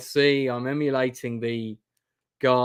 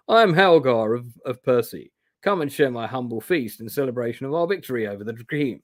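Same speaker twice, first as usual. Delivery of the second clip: put-on made-up Huron accent, a little raised. Stranger invites a traveller to his feast, in a mock Huron accent. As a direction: attempt a hearty Huron accent. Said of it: "in his thick Huron accent".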